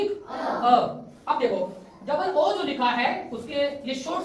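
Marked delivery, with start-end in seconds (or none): 0.0-0.7 अ as a brief isolated 'uh'; short U sound. Shown as a demonstration. Teacher checking the class knows U's sound, short अ. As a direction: give अ as the vowel in sun. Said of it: "क्या sound हुई".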